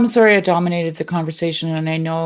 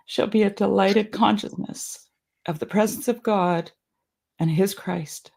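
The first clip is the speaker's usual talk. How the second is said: emotional; 2 semitones higher, 4 dB quieter than usual. Real, not acted. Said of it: "Sorry, I don't know why I'm so emotional".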